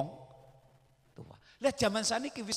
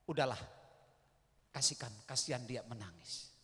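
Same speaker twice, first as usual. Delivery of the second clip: quiet urging; 9 semitones lower, 11 dB quieter, faster than usual. Acted.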